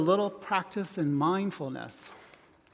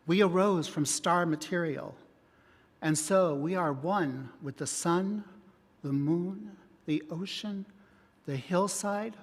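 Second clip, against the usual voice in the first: guided meditation. Acted. Leads relaxation and meditation.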